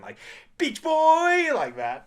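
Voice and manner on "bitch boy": put-on high, loud, stereotyped East Asian accent. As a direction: imitate his friend's East Asian accent. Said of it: "in a very stereotypical, uh, Asian accent".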